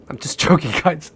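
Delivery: laughing through I'm just joking; laughing off his own joke. Real, not acted. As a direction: giggle it off. Backing off a drug joke.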